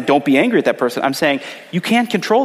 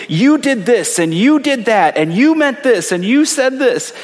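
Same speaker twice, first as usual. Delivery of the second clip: accusing; 5 semitones higher, slower than usual. Retold or imitated. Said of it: "we look at our anger and we say".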